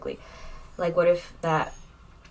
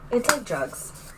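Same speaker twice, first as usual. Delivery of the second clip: slow, higher, strangely voiced aside; odd deadpan line; 6 semitones higher, much slower than usual. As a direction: drag it out like a weird non sequitur. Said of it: "I don't know why I said that".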